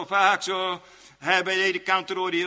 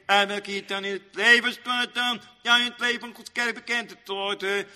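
raised, chant-like pulpit delivery; preaching; 5 semitones higher than usual. Real, not acted. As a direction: preach it in a high, steady intoning voice.

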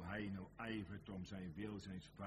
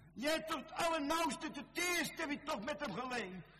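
raised, pleading reproach building to a shout; impassioned preaching; 12 semitones higher, 8 dB louder than usual. Acted. Preacher reminding Petrus of the love he tasted, impassioned preaching. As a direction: climb higher and louder with every reminder.

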